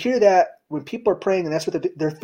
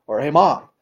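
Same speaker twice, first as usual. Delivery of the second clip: casual ask to parent; 5 dB louder than usual. Retold or imitated. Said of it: "as opposed to".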